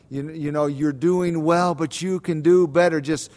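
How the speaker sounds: half-yelled coach's pep talk, rising in pitch; imitated coach yelling. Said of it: "I can still hear my coaches in my ear yelling".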